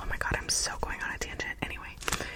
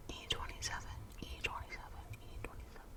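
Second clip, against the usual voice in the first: fading whisper; 13 dB quieter than usual. Real, not acted. Repeating product name, trailing off.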